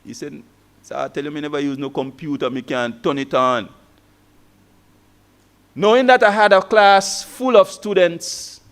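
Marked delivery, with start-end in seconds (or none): 0.8-3.7 low, soft student voice in Kitishan twang. Retold or imitated. Student confessing to the lecturer he can't use computers, in Kitishan twang. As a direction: imitate a pupil's local Kitishan twang, pitched down. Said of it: "in his local Kitishan twang".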